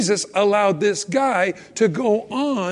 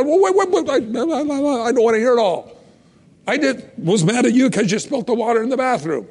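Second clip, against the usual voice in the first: put-on higher and faster, stopping the child; mock flustered parent; 5 semitones higher, faster than usual. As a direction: halt the confession, half amused.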